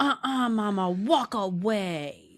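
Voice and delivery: put-on very slow, high, drawn-out toddler voice. Retelling what a toddler says to a parent: imitating a toddler. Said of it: "my toddler now, um, you know, 'cause they're really rational, uh, will say".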